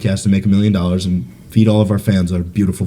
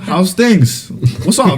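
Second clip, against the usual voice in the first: high, sheepish mock-cheery hello; overly casual greeting; 9 semitones higher, slower than usual. Caught shotgunning by great-grandma, overly casual high greeting. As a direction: act innocent in a high-pitched voice.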